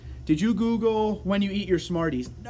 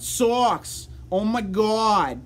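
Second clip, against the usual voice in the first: loud, drawn-out Boston exclamation; Boston accent; 5 semitones higher, 3 dB louder, much slower than usual. Shown as a demonstration. Streamer playing a Sox fan for fun, loud Boston accent. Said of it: "the Boston accent".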